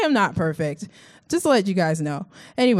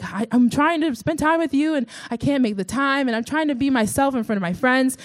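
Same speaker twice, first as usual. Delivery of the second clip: higher-pitched, exasperated pleading with God; retold frustration; 6 semitones higher than usual. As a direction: replay venting frustration, pitched up. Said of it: "I s-, became very frustrated with God".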